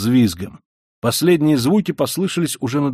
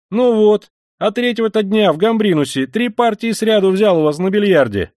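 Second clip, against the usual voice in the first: put-on eager young voice; 9 semitones higher, 5 dB louder than usual. Young man, eager reply.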